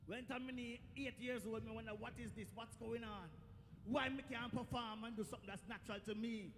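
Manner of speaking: put-on a child quietly wondering on his knee; subdued pondering.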